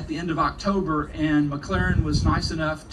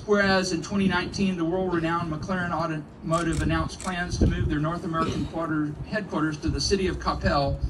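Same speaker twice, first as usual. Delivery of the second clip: formal proclamation reading. Acted. Reads proclamation aloud.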